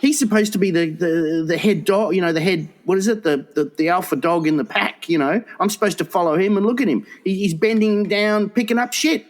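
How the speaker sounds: a put-upon dog complaining about its owner; indignant dog's thoughts. Retold or imitated. Dog fuming about its master, pitch rising.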